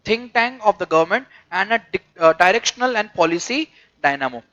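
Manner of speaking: slow, measured textbook reading; deliberate phrase-by-phrase reading; reading aloud. Real, not acted. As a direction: read it out slowly to a class.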